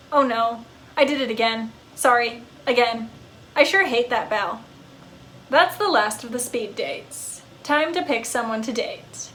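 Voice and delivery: a pup gushing about his owner; fond talking dog. Acted. Dog character.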